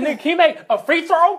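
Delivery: high-pitched mock challenge; imitated comic delivery. Retelling a joke about Shaq, high mock question. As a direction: push the punchline way up high. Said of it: "how he said it was just like".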